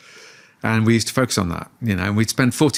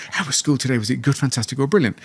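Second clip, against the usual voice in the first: eager, upbeat dad question; real enthusiasm; 2 semitones higher than usual. Shown as a demonstration. Dad asking his kids about school with real enthusiasm. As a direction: ask it like you can't wait to hear. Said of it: "I said it with real enthu".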